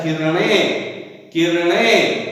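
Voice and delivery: किरणें drawn out with a retroflex ण; correct pronunciation of किरणें. Shown as a demonstration. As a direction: stretch किरणें slowly as "ki-ra-ṇeṅ", tongue curled back. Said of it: "उसका शुद्ध उच्चारण होता है".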